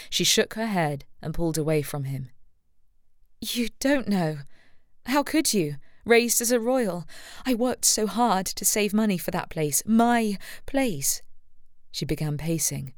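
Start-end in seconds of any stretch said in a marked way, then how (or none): 3.4-11.2 put-on raised voice, hurt and indignant young woman; upset Rebecca. A narrator's reading. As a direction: let her grievance spill out higher.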